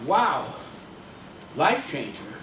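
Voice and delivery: low, musing repeat of life changer with life stressed; musing echo. Real, not acted. The speaker mulls over Harriet's words, low and intrigued. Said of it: "That sounded interesting".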